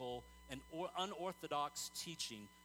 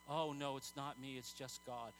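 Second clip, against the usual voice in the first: mock humble; 4 semitones lower than usual. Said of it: "Don't you ever talk like that again".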